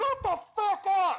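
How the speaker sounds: big booming, very high, shrill, drawn-out yell. Voicing someone shouting back across the market: loud booming voice. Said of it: "another loud booming voice".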